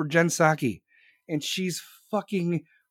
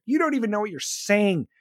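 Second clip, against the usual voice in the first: usual speaking voice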